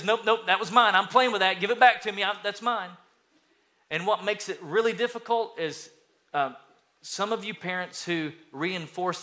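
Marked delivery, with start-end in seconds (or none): 0.0-2.9 mock child, louder and higher; a possessive kid insisting it's his; hammed-up toddler tantrum; bratty kid voice. Son demanding toy again.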